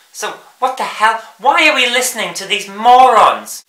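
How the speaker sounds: fed up, let it rip; exasperated. Real, not acted. Exasperated outburst.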